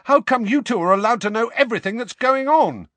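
fast, loud angry outburst; angry shouting. Acted. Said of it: "Harry was shouting".

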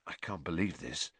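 low-volume, disbelieving mutter. A narrator's reading. Harry running a hand along his new broom, muttering. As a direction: mutter it softly, half to himself. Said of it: "Harry muttered".

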